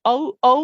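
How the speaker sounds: ও, ও as two separate letter names; letters said singly. Shown as a demonstration. Teacher showing double O letter by letter, separate ও. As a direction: give each ও its own beat. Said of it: "অথবা বলবে double ও".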